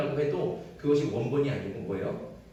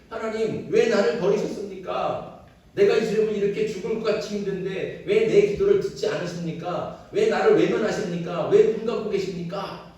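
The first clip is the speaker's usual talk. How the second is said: raised, pleading lament to God; lamenting cry; 4 semitones higher, 5 dB louder than usual. Retold or imitated. David crying out to God, a lamenting plea. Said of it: "막 탄식하고 절규하면서".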